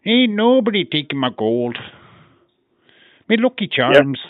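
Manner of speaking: hammed-up Irish leprechaun voice; leprechaun Irish accent. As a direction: put on a stagey leprechaun brogue. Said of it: "a proper leprechaun".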